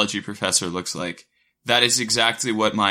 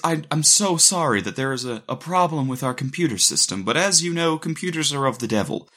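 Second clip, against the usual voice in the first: imitating a soft Southern accent, slightly raised pitch; 3 semitones higher than usual. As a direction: lightly imitate an apologetic Southern professor. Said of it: "this soft Southern accent".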